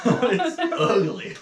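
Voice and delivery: slow, laughing through it. Real, not acted. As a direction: laugh the words out slowly. Repeats it, laughing.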